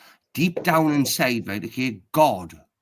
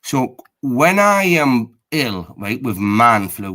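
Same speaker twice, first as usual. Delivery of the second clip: slow and drawn out; 6 dB louder, slower than usual. Acted. Mock pitiful man flu plea.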